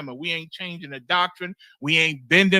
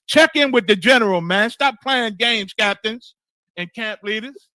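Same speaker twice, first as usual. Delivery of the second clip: scolding call-out; 3 semitones higher, 6 dB louder than usual. Real, not acted. Scolding captains who missed check-in.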